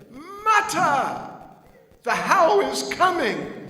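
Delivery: put-on high, loud child's voice; an excited little boy calling his mother; small boy crying out to mama; little Krishna. Child Krishna runs back to mother.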